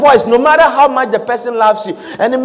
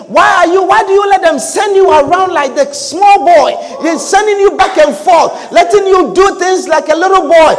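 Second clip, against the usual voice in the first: lightly acted indignation, pitched higher; mock reproachful adviser; 5 semitones higher than usual. Adviser objecting to being sent around like a boy, mock indignant. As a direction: imitate someone needling with reproach. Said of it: "The voice that comes to you and say".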